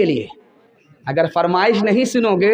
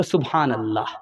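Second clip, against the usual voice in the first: lower, softer, satisfied murmur; content murmur; 8 semitones lower, 6 dB quieter than usual. Acted. Daughter telling her mother about her in-laws, soft and content. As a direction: answer it quietly, pleased.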